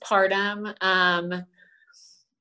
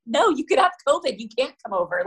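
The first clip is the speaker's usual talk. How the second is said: mock firm refusal; 8 semitones higher than usual. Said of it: "And I'm like".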